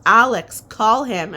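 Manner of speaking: loud urgent shout; loud call. Retold or imitated. Husband shouts to wife to call the dog, loud and urgent. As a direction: call out across the yard. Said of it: "Chris yells".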